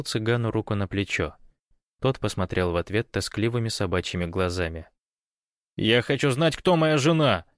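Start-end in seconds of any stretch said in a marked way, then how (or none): 5.8-7.5 raised, insistent demand. Acted. Kostya demands to know who his wife is. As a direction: demand it, getting louder. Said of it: "потребовал Костя".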